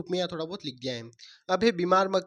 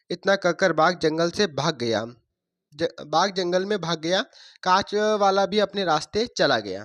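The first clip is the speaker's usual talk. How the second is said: put-on reading a story to children, a bit louder; 4 dB louder than usual. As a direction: tell the fable to the class. Teacher reads second story aloud. (बच्चों को कहानी सुनाते हुए)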